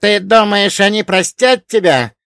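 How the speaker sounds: high, loud furious snarl. A narrator's reading. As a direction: growl it with rage. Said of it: "прорычал архангел".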